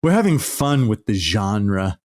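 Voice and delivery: lightly voiced pompous director, slowed; hint of a smug artiste explaining; high and mighty filmmaker. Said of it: "some high and mighty thing like".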